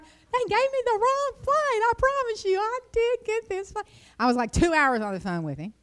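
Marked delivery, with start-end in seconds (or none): 0.0-3.9 much higher, insisting to the agent; higher, pleading with the airline agent; exasperated pleading. Retold or imitated. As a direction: plead your case, fed up.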